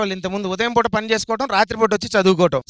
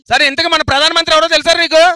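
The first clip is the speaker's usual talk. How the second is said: shouting; 6 semitones higher, 6 dB louder than usual. Acted. Bossy questioning.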